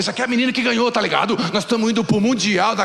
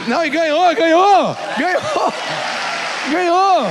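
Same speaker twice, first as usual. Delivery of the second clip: jubilant shout; 9 semitones higher, 4 dB louder than usual. Acted. Pastor celebrating the visto.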